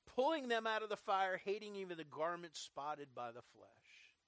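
forceful start tapering away; scripture reading. Acted. Preacher reading a warning verse to the congregation, emphatic recitation. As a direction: read the verse out firmly, then let it fall.

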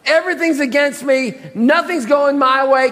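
high, mock self-pitying complaint; feeling sorry for himself. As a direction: whine it as the put-upon victim. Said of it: "He's really feeling sorry for himself".

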